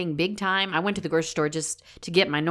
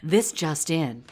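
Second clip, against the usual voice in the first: parody news anchor; 3 dB quieter than usual. Pretend. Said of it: "we're doing newscaster voice".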